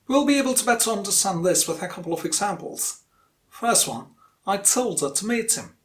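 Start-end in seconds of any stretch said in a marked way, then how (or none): 4.4-5.8 TOLD and MEET stressed, "her to" squeezed; stress-timed rhythm. Shown as a demonstration. Teacher gives first example to repeat, stress-timed. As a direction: bounce from "told" to "meet", tuck in "him". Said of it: "With syllable timed rhythm".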